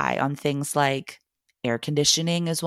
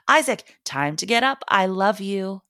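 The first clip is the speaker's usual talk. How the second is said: put-on higher, louder call to a sleeping kid; cheerful wake-up shout; 5 semitones higher, 3 dB louder than usual. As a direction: call him out of bed with a happy shout. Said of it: "walk into his room and shout".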